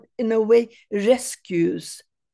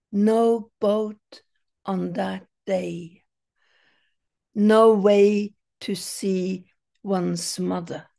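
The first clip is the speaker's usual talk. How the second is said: poetry reading. Acted. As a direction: let each image stand between pauses. Reads second poem aloud.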